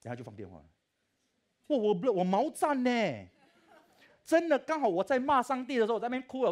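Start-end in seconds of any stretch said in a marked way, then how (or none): 1.7-6.5 excited, laughing. Real, not acted. Telling the audience about the answered prayer, loud laughing excitement. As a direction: burst out in amazed delight.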